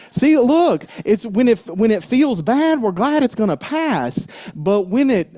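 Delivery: high, loud preaching burst; fired-up preaching. Real, not acted. Minister fired up preaching to the congregation, high and loud. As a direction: drive it home to the congregation.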